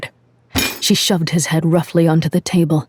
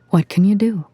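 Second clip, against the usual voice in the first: casual shrug; 5 semitones higher than usual. A narrator's reading. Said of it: "He shrugged casually as if to say".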